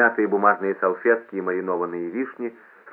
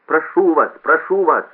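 loud, high appeal over loudspeaker; raised imploring call; pleading; 7 semitones higher, 7 dB louder than usual. A narrator's reading. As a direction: beg the crowd for order. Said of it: "молил громкоговоритель".

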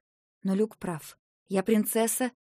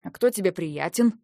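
angry; 4 dB louder than usual. Acted. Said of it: "разозлился Люк".

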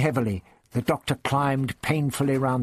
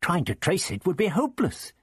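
ordinary delivery

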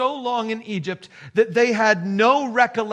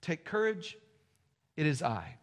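soft, hushed and slowed, almost confiding; hushed tender words; 4 semitones lower, 12 dB quieter than usual. Shown as a demonstration. Preacher voicing Jesus to frightened disciples, hushed and gentle. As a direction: let it fall gently, like a reassurance. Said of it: "He says these words".

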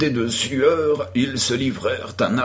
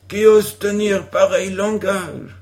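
mock heroic challenge; 6 semitones higher, 4 dB louder than usual. A narrator's reading. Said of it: "acheva Tom".

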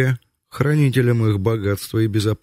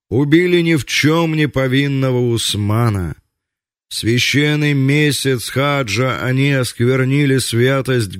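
impassioned call for vengeance; fiery speech; 2 semitones higher than usual. Acted. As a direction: stir the crowd, slowing at the end. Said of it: "пламенную речь".

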